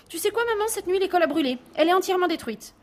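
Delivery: put-on high, loud child voice spilling big news; a small boy proudly making up a disaster; eager little boy. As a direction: petit garçon excité, voix aiguë. Boy tells a lie.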